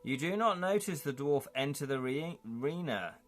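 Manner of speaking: dramatic game book narrator; story narration. A narrator's reading. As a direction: read the adventure aloud, taking your time. Reads gamebook narration.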